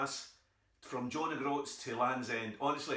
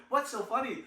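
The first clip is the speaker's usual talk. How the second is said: American auntie; 9 semitones higher, 4 dB louder than usual. Retold or imitated. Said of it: "She went".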